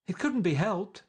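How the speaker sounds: high, loud bright cry with strain beneath; tense gaiety. A narrator's reading. Daisy back at the table, covering with tense gaiety. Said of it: "cried Daisy with tense gaiety".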